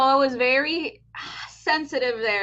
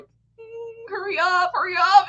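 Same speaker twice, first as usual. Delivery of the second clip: urgent hurry up; 9 semitones higher, 3 dB louder, slower than usual. Retold or imitated. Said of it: "I'm just like".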